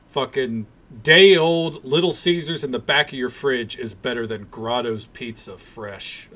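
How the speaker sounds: loud exasperated rant; a real rant getting loud; ranting yell. Real, not acted. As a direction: bellow it out in disgust. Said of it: "I woke fucking Harvey up too with that yelling".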